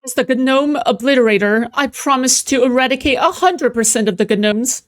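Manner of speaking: lightly hammed-up zealous candidate; gnome obliterator. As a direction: proclaim it like a meme candidate. Acting out a meme character.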